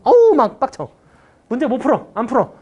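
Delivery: high-pitched exasperated outburst, loud at first; mock exasperation. Teacher mimicking a student annoyed by confusing integrals, in mock exasperation. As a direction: act out a fed-up student giving up on the problem. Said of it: "막 짜증나거든?".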